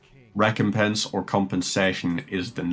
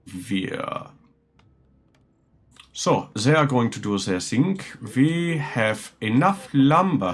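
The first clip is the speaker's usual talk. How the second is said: put-on German accent with swooping pitch; 4 semitones higher than usual. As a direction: play a German counting off and giving orders. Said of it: "decided to be German for a second".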